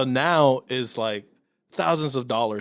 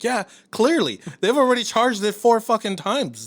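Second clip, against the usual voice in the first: exasperated anger; 8 semitones higher than usual. Retold or imitated. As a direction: obviously, stop it now. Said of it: "I was so mad".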